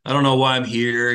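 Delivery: halting, repeating stammer. Retold or imitated. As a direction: stumble over the words nervously. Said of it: "he starts stammering".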